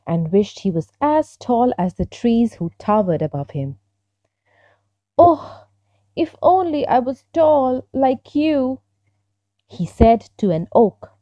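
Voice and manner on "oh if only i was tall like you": lightly voiced small fir tree, higher, wistful wish; higher, wishing little tree. Little fir tree wishing to an oak, lightly voiced.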